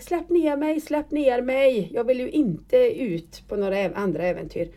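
a pleading cry to be put down, half performed; imitating a frightened yell for help; retold scream. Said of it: "Och jag skrek".

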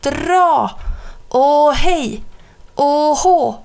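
chanting heave-ho while hauling together; heave-ho calls. A narrator's reading. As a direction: call out the pulling chant in a high voice. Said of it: "och ropade".

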